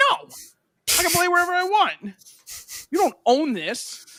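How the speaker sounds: put-on high, loud kid protest; retold defiant shout. Kid standing up to neighbor lady, retold defiant shout.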